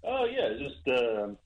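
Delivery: tinny speakerphone sound. Real, not acted. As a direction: caller on speakerphone. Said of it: "it sounds like you're on speakerphone".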